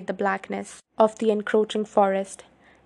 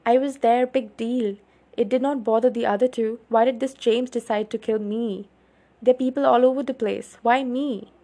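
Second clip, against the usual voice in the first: upset protest; 3 semitones higher than usual. Acted. Bella protests, frightened.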